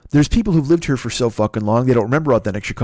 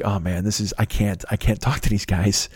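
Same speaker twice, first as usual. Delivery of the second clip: muttered aside; 6 semitones lower, 5 dB quieter than usual. Retold or imitated. Inner thought at the table.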